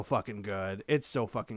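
hushed awed whisper. Real, not acted. Whispering to friends how good the show is. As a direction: breathe it like a secret. Gushing about Succession.

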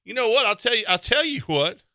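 hammed-up hick voice; hick fan rant. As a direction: rant at The Rock like a race fan. Redneck fan rant continues.

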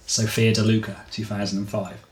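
measured audiobook-style reading; story narration. A narrator's reading. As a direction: read the story out evenly, phrase by phrase. Reads the chapter aloud.

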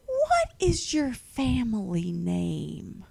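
slow, lightly voiced old lady question; a hint of a polite old Southern lady probing; Southern old white lady. Old lady asks the inspector, slow and lightly voiced. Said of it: "That is Southern old white lady".

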